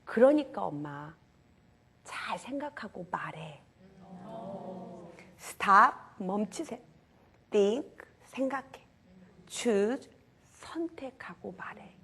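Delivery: put-on slow, partly whispered child's advice; a small boy gently lecturing mom, slowly; lightly voiced boy, slow and hushed; calm child advice. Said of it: "이 아들이 이렇게 말하는 거예요".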